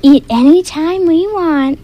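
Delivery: high gleeful troll voice; high greedy troll; troll boasting. Acted.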